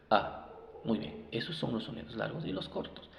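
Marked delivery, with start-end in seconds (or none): 0.1-0.5 A as short English U, "uh"; short U sound. Shown as a demonstration. Teacher showing short U, a brief "uh". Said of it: "Y la U".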